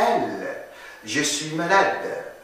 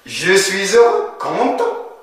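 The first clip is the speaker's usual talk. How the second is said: acted happy; 3 semitones higher than usual. Shown as a demonstration.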